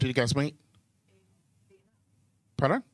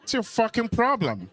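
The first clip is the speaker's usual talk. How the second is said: higher, laughing through it; laughing punchline; 8 semitones higher than usual. Real, not acted. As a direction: toss it out with a laugh.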